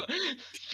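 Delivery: short high mock cackle; quick villain giggle; evil laugh. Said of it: "Le concours de rire maléfique". (petit rire maléfique)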